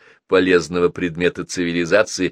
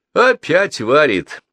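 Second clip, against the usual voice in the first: chagrined; 8 semitones higher, 4 dB louder, slower than usual. A narrator's reading. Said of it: "огорчённо сказал Гена".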